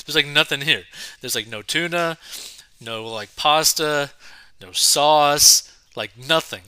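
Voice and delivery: incredulous rundown of what's missing; retold shock. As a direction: hit each missing item hard. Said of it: "which shocked me".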